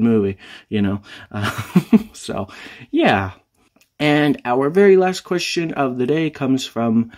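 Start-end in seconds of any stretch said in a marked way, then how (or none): 4.0-7.1 a rough catch in the throat; frog in throat. Real, not acted. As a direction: voice catching and cracking. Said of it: "Can I please talk, voice?".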